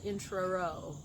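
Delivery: "intro-ro" with the last syllable repeated; stuttered intro. Retold or imitated. Host owning up to a slip, stuttered "intro-ro". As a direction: trip on the end of "intro-ro", doubling the ro. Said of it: "I sort of stuttered on the word intro".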